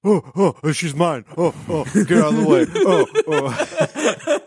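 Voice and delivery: giddy, rushed fan squealing; a flustered fan who can't contain himself; excited fan voice. Pretend. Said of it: "That's how I imagine the large audience".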